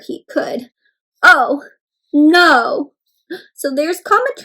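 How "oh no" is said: loud storybook "oh no"; dismayed. Acted. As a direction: exclaim in playful alarm. Reads comma's trouble with dismay.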